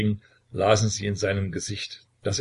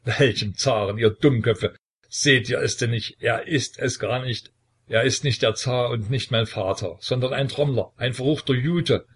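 laughing into sobs; 4 dB louder than usual. Acted. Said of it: "Er lachte und weinte zugleich so wahnsinnig".

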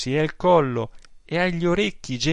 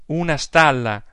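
outraged repeat; 3 semitones higher, 6 dB louder than usual. Acted. Aunt repeats louder, outraged.

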